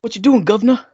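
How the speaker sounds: playful bad English accent; hammed-up English accent. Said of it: "Your accent is very good".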